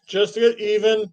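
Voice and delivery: talking with a mouthful of food; words round a bite of food; mouth full. Real, not acted. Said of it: "sorry for speaking with my mouth full".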